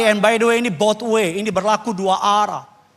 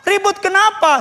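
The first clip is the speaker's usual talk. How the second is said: high, punchy mock-surprised question; retold questioning; 12 semitones higher, 4 dB louder than usual. Pastor quizzes a congregant about trouble at home, high and probing.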